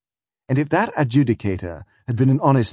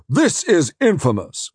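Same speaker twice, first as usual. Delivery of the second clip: much higher, loud outraged roar; 9 semitones higher, 4 dB louder, slower than usual. Acted. Defence counsel roars at the prosecutor in outrage. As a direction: bellow it in outrage. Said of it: "roars Anderson".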